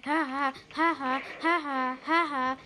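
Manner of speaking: evenly repeated "ha ha"; put-on laugh in steady pairs; mock laugh. Chanted mock laugh during play.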